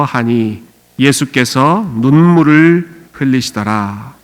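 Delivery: slow, measured Bible reading; scripture reading. Acted. Pastor leading the church in reading the verses, slow and solemn. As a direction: read the verses out slowly and solemnly. Congregation reads scripture aloud together.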